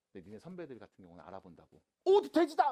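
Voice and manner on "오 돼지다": high, loud cry of recognition; mock excited shout. Older students spotting the teacher, shouting excitedly. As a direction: yell it like spotting a friend in the street. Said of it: "막 이런다고".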